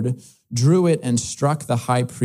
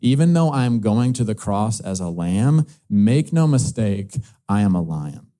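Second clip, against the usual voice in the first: voice of God; 4 semitones lower than usual. Acted. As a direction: speak as God declaring his name, deep and unhurried. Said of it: "as though God is saying".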